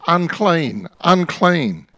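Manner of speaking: lightly voiced leper's cry; cried warning. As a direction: call it out to keep strangers away. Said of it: "From time to time you cry out".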